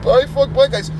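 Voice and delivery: high, whiny crybaby voice; high-pitched mock whimpering complaint; mock tearful protest. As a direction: imitate a tearful woman objecting. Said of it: "she starts crying and she's like".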